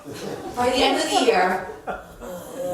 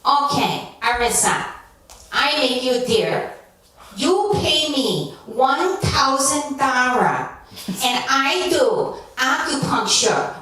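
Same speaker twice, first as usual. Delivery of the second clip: imitating the elderly Chinese woman. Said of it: "this elderly Chinese woman ... she said".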